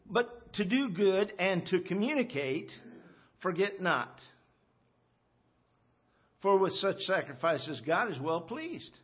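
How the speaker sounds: reading the verse out with weight; scripture reading. Acted. Preacher reads the verse to the church, solemn. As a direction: read scripture to the congregation.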